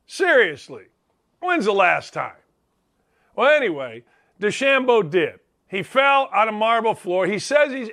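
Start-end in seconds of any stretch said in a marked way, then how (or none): none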